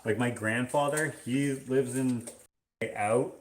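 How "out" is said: "out" with a raised Canadian vowel, like eh-oot; exaggerated Canadian OU in "out"; grandfather's Canadian out. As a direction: imitate a Canadian grandfather saying "out". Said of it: "He'll say, like".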